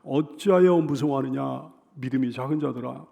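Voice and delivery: low, measured rebuke; restrained reproof. Acted. Preacher voices Jesus to frightened disciples after the storm, mild reproof. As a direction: chide them calmly, without anger. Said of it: "단지 이렇게 책망하셨어요".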